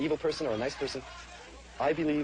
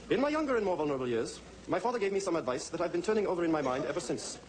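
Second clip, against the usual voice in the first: stage reading; 4 semitones higher than usual. Acted. Performer reads Gatsby on stage.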